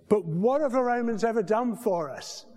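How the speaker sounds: John Cleese. Retold or imitated. Preacher acting the sketch's climax, exasperated Cleese. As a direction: build to a fed-up demand. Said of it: "we have John Cleese going".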